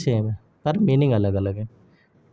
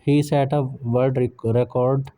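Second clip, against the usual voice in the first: whisper; much slower than usual. Real, not acted. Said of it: "whispered line".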